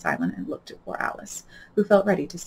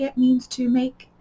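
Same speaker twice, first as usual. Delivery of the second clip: doubtfully; 7 semitones higher, 4 dB louder than usual. A narrator's reading. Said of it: "said Alice doubtfully".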